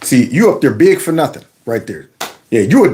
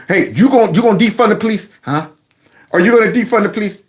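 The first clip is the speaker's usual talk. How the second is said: higher-pitched mock challenge; confronting crowd; 4 semitones higher, faster than usual. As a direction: press him like a heckling crowd member. Voices rally crowd confronting the politician.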